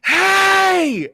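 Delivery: high, full-force attention-grabbing yell; shout. Acted. Player's character distracting creatures from Hazel and Charlotte, shouting. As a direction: holler to lure the creatures away. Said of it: "and just shout".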